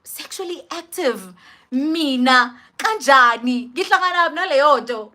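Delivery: disbelieving, rising in volume; incredulous echo. Retold or imitated. Teenager stunned by the doctor's question, acted incredulity. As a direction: repeat it in mock shock, then build.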